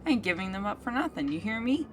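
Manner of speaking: a hint of a stubborn goat; defiant goat.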